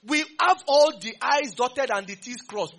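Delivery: slow, loud, laughing emphasis; laughing exaggeration. Real, not acted. Preacher mocks Nigerians' endless explaining, slow and laughing.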